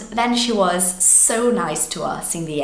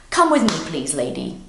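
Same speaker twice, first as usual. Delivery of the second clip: fuming; 2 semitones lower than usual. Retold or imitated. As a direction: order them along with contained mock anger. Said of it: "she was angry. She was fuming".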